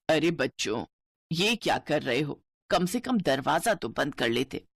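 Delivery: put-on an older mother-in-law gently scolding the kids. Narrator voices the mother-in-law.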